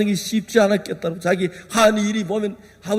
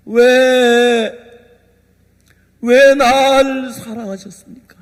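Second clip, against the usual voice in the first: louder, slower, pleading why; impassioned cry; 3 semitones higher, 5 dB louder, much slower than usual. Retold or imitated. Preacher crying out to God, louder and pleading.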